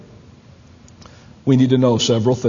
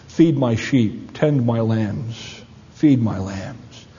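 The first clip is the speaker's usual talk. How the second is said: slow tender charge; 3 semitones lower, much slower than usual. Acted. Jesus charging Peter.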